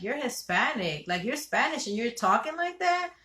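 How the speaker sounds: mildly acted astonishment; retold disbelief. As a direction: question it as if you can't believe your ears. Acts out husband's shocked questioning.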